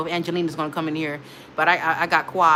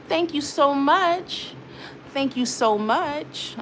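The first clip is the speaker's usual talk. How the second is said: touched thanks; 6 semitones higher, much slower than usual. Real, not acted. Touched by a viewer's compliment.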